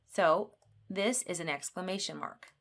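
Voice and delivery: usual speaking voice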